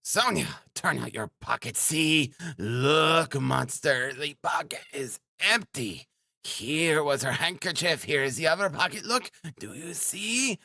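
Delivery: high, agitated woman's voice; frantic woman crying out. A narrator's reading. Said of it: "cried Ekaterina Ivanovna".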